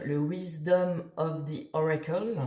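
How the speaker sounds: titre anglais prononcé avec application, accent français; English title in a French speaker's accent; accent anglais approximatif. Real, not acted. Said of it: "Quel accent anglais incroyable". (accent anglais à la française)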